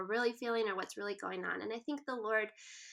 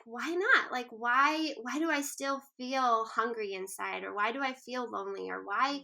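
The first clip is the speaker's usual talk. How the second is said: lightly wondering, lifted on the first question; mildly inquisitive inner voice; curious self-questioning. Acted. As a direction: wonder aloud about your own feelings. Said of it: "just being curious".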